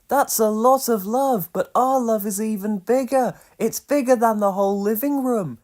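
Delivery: high, bright-eyed little birds. A narrator's reading. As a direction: chirp it up like two tiny birds. Pip and Pop voiced in story.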